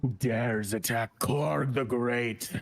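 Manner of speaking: slow, drawn-out villainous demand; pompous challenged villain. Acted. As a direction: proclaim it like a self-styled great warlord. Game master voices outraged villain.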